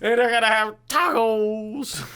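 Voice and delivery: giddy hillbilly quote; imitating the farmer. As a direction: echo the excited farmer. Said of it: "And tacos".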